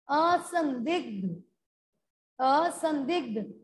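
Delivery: असंदिग्ध said slowly, each syllable distinct; careful pronunciation. Shown as a demonstration. Teacher modelling असंदिग्ध for spelling, slow careful pronunciation. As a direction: draw out असंदिग्ध with a falling end. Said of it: "बहुत ही ध्यान से इनको सुनिएगा".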